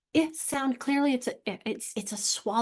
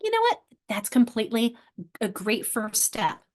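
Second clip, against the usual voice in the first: encouraging teacher. Retold or imitated. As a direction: cheer the child on. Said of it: "I'm like".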